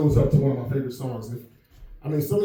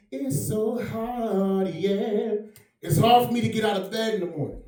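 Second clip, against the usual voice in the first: impression of a rapper; 4 semitones higher, 4 dB quieter than usual. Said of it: "he had that one famous song".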